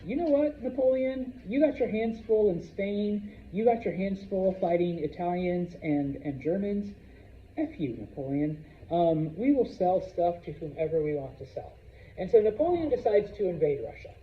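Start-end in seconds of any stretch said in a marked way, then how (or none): 0.1-11.7 teacher voicing the Russians' defiance; defiant Russians. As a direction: tell Napoleon off, half-playful. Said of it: "the Russians were like".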